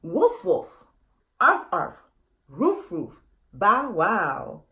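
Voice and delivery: a light playful bark; lightly voiced dog barking; a hint of a dog barking. Shown as a demonstration. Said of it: "language goes something like this".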